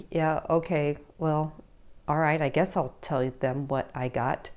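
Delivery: put-on reluctant teen. Reluctant teen voiced by parent.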